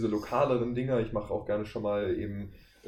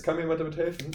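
demo line; 6 semitones higher, faster than usual. Shown as a demonstration. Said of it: "dann hat man halt beides".

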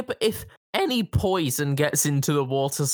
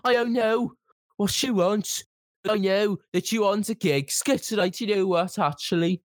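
huffy shop assistant; 5 semitones higher than usual. Acted.

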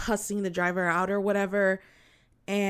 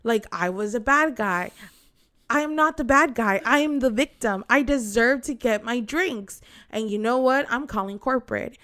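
building indignant rant. Retold or imitated. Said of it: "she goes".

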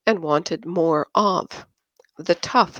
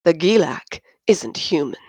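bitter. Acted. Drunk Yin sneers at Christine's boyfriend, bitter whisper. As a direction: spit it out bitterly under breath. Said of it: "Yin said bitterly".

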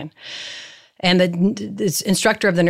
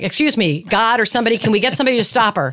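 imitating dad; 5 semitones higher, 3 dB louder, faster than usual. Late dad pleading with heaven.

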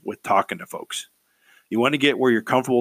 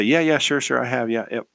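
overeager agreeing. Shown as a demonstration. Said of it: "kind of excited like that".

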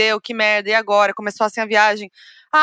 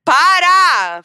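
loud protest; 5 semitones higher, 7 dB louder than usual. Real, not acted. Laughing protest.

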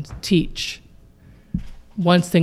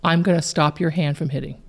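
softer, calm helping words; steady the child quietly; quiet calm reassurance; 4 dB quieter, faster than usual. Shown as a demonstration. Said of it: "you've gotta calmly help him and say".

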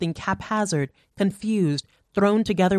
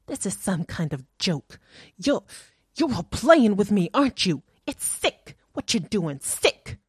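frightened accusation; 3 semitones higher than usual. A narrator's reading.

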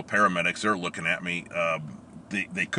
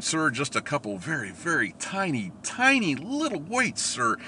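sheepish reply; 7 semitones higher than usual. Retold or imitated. Sheepish answer to instructor.

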